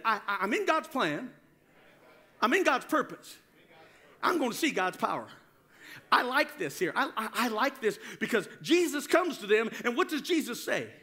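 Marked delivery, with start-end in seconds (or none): 0.0-5.3 firm, emphatic declaration; like you mean it. Shown as a demonstration. Preacher leads congregation in claiming God's plan, meaning it. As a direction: declare it with conviction. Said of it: "say it like you mean it".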